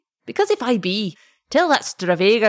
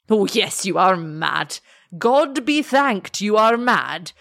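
put-on vehement old man. Old father insists the lover is mad, slow and vehement. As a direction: hammer it home, hoping it's madness. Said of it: "said the old man vehemently".

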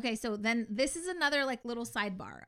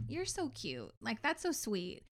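softer, tender put-on reply; imitating a sweet doctor; 6 dB quieter than usual. A doctor charmed by her patient's question, softer and tender. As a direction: coo it back like an amused, fond doctor.

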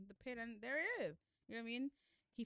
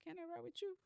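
higher, whiny little plea; pleading Eve; 10 semitones higher, 3 dB quieter than usual. Retold or imitated. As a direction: beg sweetly for the ride. Eve begging to ride with Noelle.

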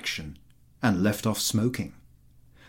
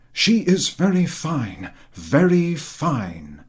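lightly voiced fawning landowner, higher; eager flatterer; 6 semitones higher, 6 dB louder, slower than usual. A narrator's reading. Chertakutski flattering the general about his horse, eager and higher. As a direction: fawn over the horse in a raised, eager voice.

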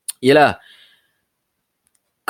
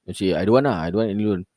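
scam caller voice; 6 semitones higher than usual. Retold or imitated. Caller voice vs own reply.

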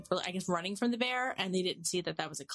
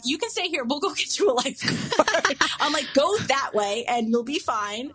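raised, high voice calling out; retold shouted instructions; 6 semitones higher, 7 dB louder than usual. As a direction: call out directions over the water. Shouting directions to swimmer, retold.

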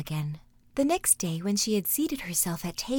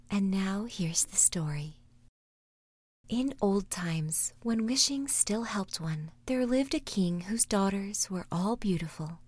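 whispered story narration. A narrator's reading. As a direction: whisper the tale like a bedtime story. Whispered fairy tale narration.

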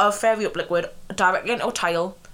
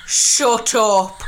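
a loud, laughing "shut up" thrown at a friend; playful shout; 2 semitones higher, 6 dB louder than usual. Real, not acted. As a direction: bark it out in mock outrage. Playful outburst at co-host.

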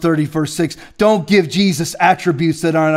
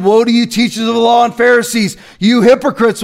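raised rebuke; 4 semitones higher than usual. Shown as a demonstration. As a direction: rebuke the hypocrites. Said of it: "Right after that sentence again".

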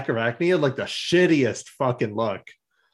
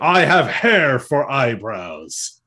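slow mopey Silverbolt; much slower than usual. Retold or imitated. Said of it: "He's like".

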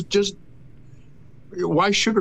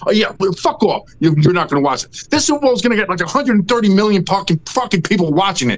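angry rant; 3 semitones higher than usual. Real, not acted. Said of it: "Breathe. Breathe".

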